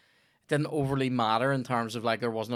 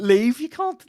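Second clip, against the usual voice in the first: much higher, louder urgent shout; mock yell; 14 semitones higher, 14 dB louder, slower than usual. Watching an overrunning comedian, mock shouting at him. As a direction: yell at him from the crowd to get off. Audience member urging comedian off.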